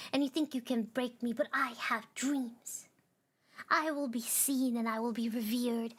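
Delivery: a touch of angry defiance; mild defiance. Acted. The little star defying the darkness, mildly angry. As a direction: push back at the darkness with bite. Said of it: "had grown wary and angry".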